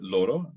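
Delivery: LORO with one quick tapped R; LORO, light tap, rising end; Spanish single R. Shown as a demonstration. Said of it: "That's about as good as I can do".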